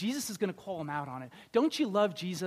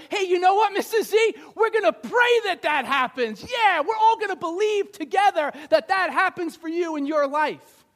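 high, loud, eager prayer-group enthusiasm; rally everyone to pray for her; eager churchy cheer; 10 semitones higher, 9 dB louder than usual. Acted. Group member loudly rallying prayer for Missus Z.

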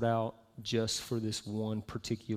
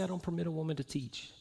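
fast, softer misreading of "I don't permit a woman to teach"; quick throwaway misquote; 5 semitones higher, 4 dB quieter, faster than usual. Shown as a demonstration. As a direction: rush "teach" as if the sentence stopped there. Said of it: "It doesn't say".

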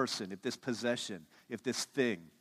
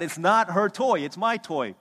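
mock kid yelling; 5 semitones higher, 8 dB louder than usual. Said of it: "So this boy starts yelling at the dad".

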